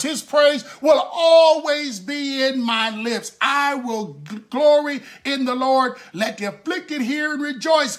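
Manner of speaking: emphatic scripture declamation; fervent preaching. Acted. Preacher quoting David's psalm to the congregation, fervent preaching. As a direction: proclaim the psalm with rising fervor.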